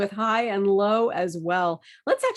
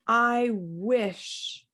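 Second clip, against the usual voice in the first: wistful. Shown as a demonstration. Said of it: "this phrase helps me".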